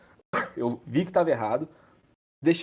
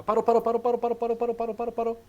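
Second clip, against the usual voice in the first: urgent repeated stop; 9 semitones higher than usual. Real, not acted. Urgently stopping the video.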